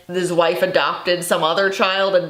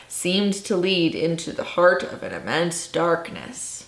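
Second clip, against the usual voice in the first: dramatic reading. Shown as a demonstration. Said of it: "I'm just gonna redo the last sentence of the book here".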